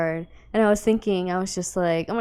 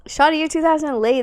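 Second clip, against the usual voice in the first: teasing jab; 10 semitones higher, 7 dB louder than usual. Real, not acted. Teasing partner's stale joke.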